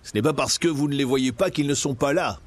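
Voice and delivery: lightly voiced bold hero talking back; exclaiming captain. Captain talking back to the governor, mildly heroic exclaim. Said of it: "s'écria le charismatique capitaine".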